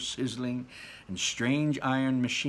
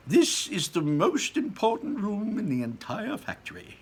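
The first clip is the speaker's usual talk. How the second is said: Wonka voice; 10 semitones higher, 4 dB louder than usual. Acted. Wonka voiced in read-aloud.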